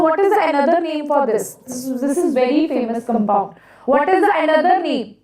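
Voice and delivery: echoing classroom sound; big hall echo. Real, not acted. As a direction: voice ringing in a hall. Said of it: "sorry about the echoing of the class".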